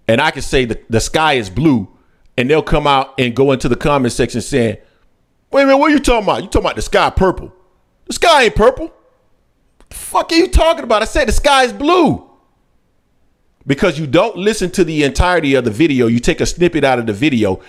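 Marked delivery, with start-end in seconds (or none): 5.5-12.3 mock commenter. Mocking commenters in comment section.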